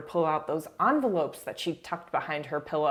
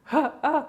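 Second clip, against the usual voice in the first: high-pitched mock grunts, half laughing; tennis-player grunts; 10 semitones higher, 4 dB louder than usual. Comparing the argument to a tennis match, mock grunting. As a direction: imitate effortful tennis rally grunts. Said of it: "It's like a, a game of tennis".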